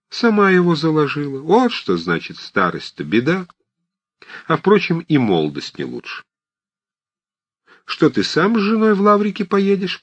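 put-on high, loud old woman's chatter; fussy old aunt. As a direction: play a bustling old aunt fussing at everyone. Old aunt Marfa voiced. (суетливая старушка, высоким громким голосом)

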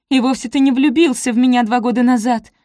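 snapping back. A narrator's reading. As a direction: fling it back at him. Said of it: "бросила Софи".

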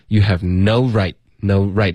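"no right" said with weight both times; stress on no right. Shown as a demonstration. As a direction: punch "no right" each time. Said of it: "这两个都会有重音".

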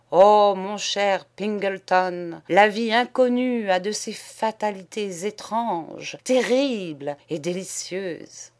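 loud, fervent lover's speech; passionate declaration. Acted. Poet declaring love to his friend, loud and fervent. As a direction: declaim your fated love.

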